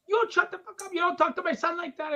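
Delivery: high-pitched angry mother, mock Latino accent; retold scolding in a heavy Latino accent; thick Latino accent. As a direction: imitate an outraged mom with a Latino accent. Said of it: "She had a very thick Latino accent".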